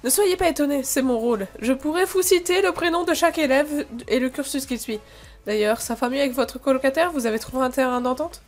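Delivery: lightly put-on German accent; German-accented professor explaining himself. Professor telling a student he knows everyone, German accent. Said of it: "j'ai arrêté de faire l'accent allemand".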